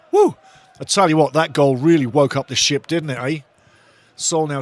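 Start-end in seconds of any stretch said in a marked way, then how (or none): 0.1-0.4 loud celebratory woo; whooping cheer. Real, not acted. 0.8-3.4 much louder, buzzing with joy; excited shout. Real, not acted. Buzzing after the goal.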